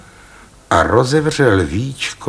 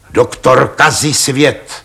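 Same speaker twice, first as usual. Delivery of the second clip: slow repetition; 4 semitones higher than usual. Acted. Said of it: "opakovali páni Radové".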